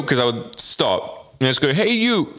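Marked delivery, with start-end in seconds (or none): 1.7-2.3 mock vendor call. Market stall vendors calling out.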